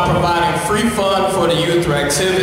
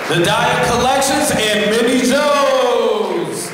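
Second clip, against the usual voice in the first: announcer shout; 3 semitones higher, slower than usual. Real, not acted. Announcing sponsors to crowd.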